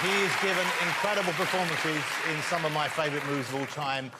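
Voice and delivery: projected presenter voice, lifting on the name; talk-show host introduction. Real, not acted. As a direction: announce the star guest to the audience. Host introduces the next guest.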